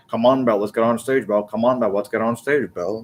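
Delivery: lightly voiced low-key rocker; slightly low, casual stage invite; a hint of imitation, pitched a touch down; Gene impression. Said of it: "That's how he would say it to Belle".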